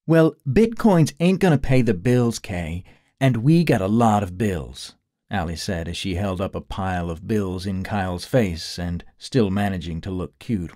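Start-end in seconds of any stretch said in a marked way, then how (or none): 0.0-5.0 lightly voiced young woman, a touch higher; pushy partner needing rent money; Allie's voice. A hint of Allie.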